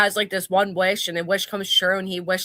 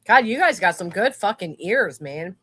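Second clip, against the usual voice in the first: mouth full. Real, not acted. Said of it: "we know you're eating".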